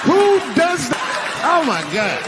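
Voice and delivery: high-pitched, drawn-out outrage; imitated wife, high and slow; acted upset wife. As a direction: wail in appalled disbelief.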